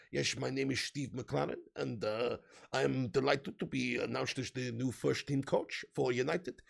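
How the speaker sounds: put-on Dutch accent, slowing down; Steve McClaren. Streamer imitating the coach's announcement, fake Dutch accent. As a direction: do a halting mock Dutch accent. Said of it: "he can speak in a Dutch accent".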